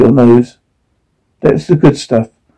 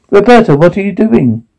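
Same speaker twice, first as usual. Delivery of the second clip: raised pleading call; calling out urgently; 6 semitones higher than usual. Acted. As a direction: call her name through the door. Calling through door in storm.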